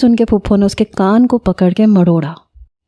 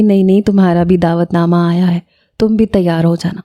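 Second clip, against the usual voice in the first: lovingly; 2 semitones lower than usual. Acted. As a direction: soothe him gently. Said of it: "بڑے پیار سے پھوپھو نے کہا". (بڑے پیار سے، نرمی سے)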